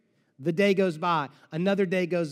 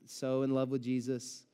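fake cheerful; 6 semitones lower, 5 dB quieter than usual. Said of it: "Martha's not like".

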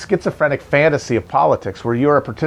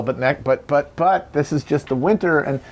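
mock nerd protest; 5 semitones higher than usual. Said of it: "all the nerds are gonna yell".

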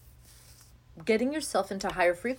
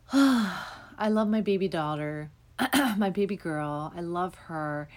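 heartfelt list of loves, softening as it goes; gratitude rant. Shown as a demonstration. Demonstrating a gratitude rant to her listeners, sincere and tender. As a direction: pour out thanks, one love after another. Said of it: "So a gratitude rant would be like".

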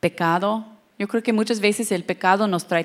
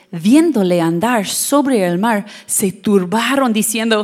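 loud dramatic reading; 5 dB louder than usual. Shown as a demonstration. Preacher booming the verse to wake the congregation. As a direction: read it big to wake the room. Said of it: "That's just to wake some of you up".

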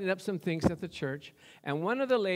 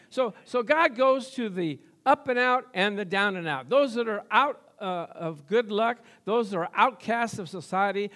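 loud, punched preacher's cadence; forceful pulpit delivery; emphatic preaching; 3 semitones higher, 5 dB louder than usual. Real, not acted. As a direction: preach it out, landing hard on each phrase.

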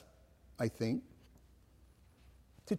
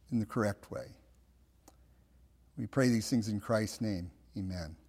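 prayer; 3 semitones lower than usual. Real, not acted. Preacher praying to God for the congregation, prayerful. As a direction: pray gently, settling down to a low amen.

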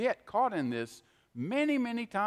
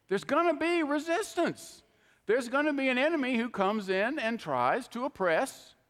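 rising preacher warning; 6 semitones higher than usual. Real, not acted.

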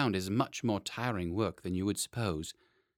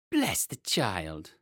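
exasperated nurse; much slower than usual. A narrator's reading. Nurse voiced, exclaiming at child.

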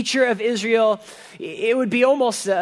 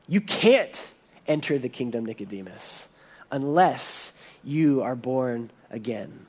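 low and solemn; 8 semitones lower, 5 dB quieter than usual. Retold or imitated. Jesus tells Nicodemus the condition.

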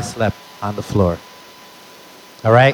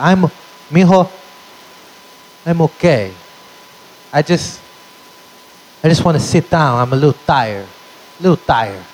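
halting drunk-father impression; imitated drunk dad. Drunk father answers his son on coming home, halting imitation. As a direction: act drunk, with long gaps between fragments. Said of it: "I knew he was drunk".

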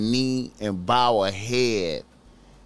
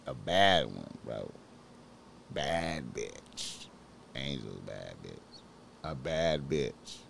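low, soft, drawn-out murmur; low admiring murmur; 9 semitones lower, 12 dB quieter than usual. Real, not acted. Praising Angel to viewers in a low murmur. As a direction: savor it under your breath.

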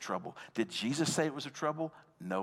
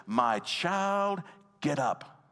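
high, raised-voice command; loud voice; 4 semitones higher, 4 dB louder, much slower than usual. A narrator's reading. Jesus calling the dead girl to rise, loud voice. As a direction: call it out as a commanding Bible narrator. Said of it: "he said in a loud voice".

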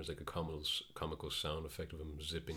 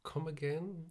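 high, breathy whispered disbelief; incredulous whisper; 12 semitones higher than usual. Retold or imitated. Podcaster reacting to an odd movie line, whispering. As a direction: whisper it like you misheard. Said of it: "And I'm like".

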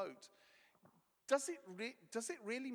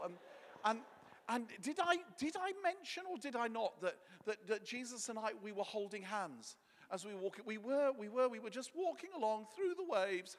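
put-on rambling, proud old storyteller; boastful old Peter; 3 semitones higher, 4 dB louder than usual. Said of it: "Peter would have probably been".

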